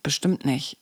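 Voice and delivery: smooth it over half-heartedly; understated mock reassurance; glossing over. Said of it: "das ist Schönreden".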